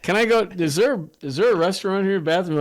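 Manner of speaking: mock whiny disbelief; pleading. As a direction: beg like a worn-out traveler. Pleading tired pilot.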